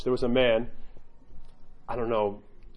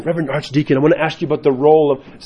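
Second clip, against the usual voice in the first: a hint of earnest, pushy zeal, getting louder; zealous convert; 7 dB louder than usual. Convert questioning the seated archdeacon, lightly mock zealous. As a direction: lightly imitate an over-eager questioner. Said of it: "tons of zeal".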